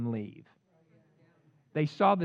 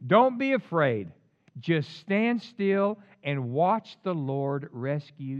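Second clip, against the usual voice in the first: Moses addressing people; 4 dB louder, much slower than usual. Acted. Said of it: "Moses told the people".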